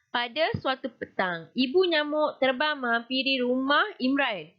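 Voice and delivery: lively, shaped storytelling delivery of the opening line. Shown as a demonstration. Teacher shows pupils the right way, lively storytelling. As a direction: read it like telling a story to children. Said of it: "Ha, nampak tak macam bercerita?".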